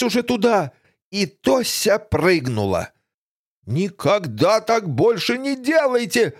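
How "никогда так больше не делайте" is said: shouting. Acted. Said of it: "орал шериф".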